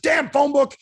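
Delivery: high, loud mock curse at the phone book. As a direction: spit it out in mock fury. Angry guy curses phone book.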